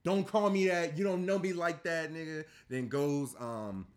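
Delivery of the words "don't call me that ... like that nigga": louder, higher mock angry retort; imitating angry Kyrie. Voicing Kyrie storming off, louder mock anger. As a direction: snap it back like the offended player. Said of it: "and it's like".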